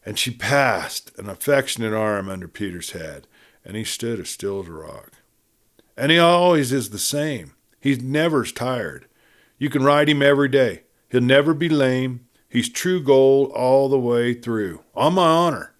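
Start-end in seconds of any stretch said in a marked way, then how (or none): 5.9-15.7 earnest Joan. Acted. Joan earnestly assures the cattlemen, raised pitch. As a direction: plead for the horse with eager heart.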